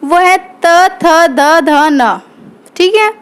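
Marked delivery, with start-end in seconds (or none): 0.4-2.2 tongue to the teeth on त, थ, द, ध, न; dental letter demo. Shown as a demonstration. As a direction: recite त, थ, द, ध, न as a series. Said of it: "दंत का उच्चारण है".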